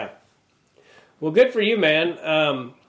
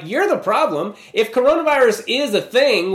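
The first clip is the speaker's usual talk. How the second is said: retorting back; 5 semitones higher than usual. Retold or imitated. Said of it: "And I'm like".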